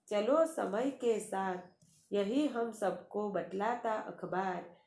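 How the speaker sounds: measured, lilting poem reading; poem recitation. Acted. Teacher recites the last poem verse. (कविता पाठ के अंदाज़ में)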